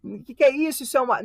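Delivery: high, panicked mock student cry; desperate students. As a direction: play a student panicking over the exam. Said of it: "os alunos ficar desesperados". (aluno desesperado, voz aguda e em pânico)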